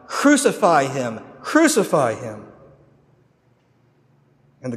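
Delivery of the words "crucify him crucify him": slow, loud mock mob chant; crowd crying out. Preacher voices the crowd answering the governor, slow chanted cry. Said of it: "the crowd cries out even louder".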